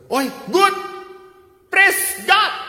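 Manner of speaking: high, loud burst of joy; excited cheer. Retold or imitated. Priest delighted at the engagement news, loud excited cheer.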